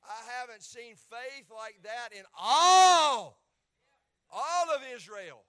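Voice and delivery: loud, slow, high marvelling; Jesus marvelling at the centurion's faith; amazed proclamation. Acted. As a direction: preach Jesus's wonder. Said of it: "He said".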